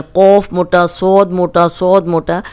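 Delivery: कौफ and सौद said heavy and full; heavy letters. Shown as a demonstration. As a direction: give सौद a thick, heavy sound. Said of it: "तीनों मोटे हैं।".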